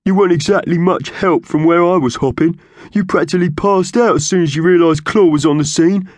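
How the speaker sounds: high, loud accusing bird voice; quarrelling magpie. Acted. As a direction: throw the blame back in a loud squawk. Thug argues back in quarrel.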